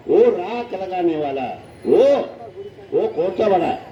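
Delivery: mildly scornful storyteller's quote; understated mock contempt; retold scornful denunciation. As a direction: lightly act out a father denouncing a son-in-law. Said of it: "निंदा कर डाला वो".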